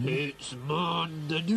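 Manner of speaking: slow hammed-up Scottish; mock Scottish accent. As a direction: drag it out in a stage Scottish. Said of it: "if only we could place the accent".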